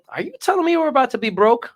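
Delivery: put-on high, loud kid voice, alarmed; imitating his son. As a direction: son asking dad if they're broke, alarmed. Dad voices son's worried question.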